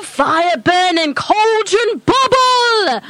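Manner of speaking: crone slipping into incantation; lightly voiced hag chanting; old witch voice.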